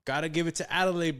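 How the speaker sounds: ordinary talk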